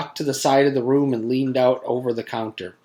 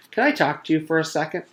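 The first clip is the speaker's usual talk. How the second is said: hurried eager ask; 4 semitones higher, faster than usual. Acted. Paul asks eagerly.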